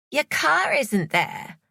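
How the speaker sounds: a high, slow, suspicious Savannah; wary woman. A narrator's reading. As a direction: test his story, nervously. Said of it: "She looked terrified".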